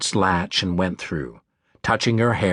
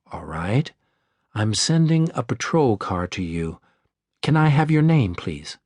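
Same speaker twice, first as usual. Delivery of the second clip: warm and calm. Acted. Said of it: "Her voice was warm and calm".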